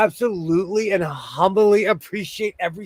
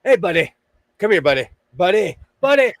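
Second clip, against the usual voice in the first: lightly imitated Minnesotan accent, louder; 4 semitones higher, 4 dB louder than usual. Mimicking how Minnesota people call you buddy, in a light Minnesotan accent. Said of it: "People go".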